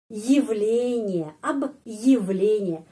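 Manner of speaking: явление said slowly with a stop after ab; ab, pause, then явление drawn out; slow demo with break. Shown as a demonstration. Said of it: "stop sebentar karena ada tanda penguat". (явление diucapkan pelan dengan jeda)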